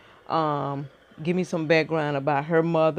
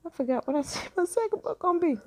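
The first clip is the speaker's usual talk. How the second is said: laughing at herself. Real, not acted. Laughs at forgetting her plan.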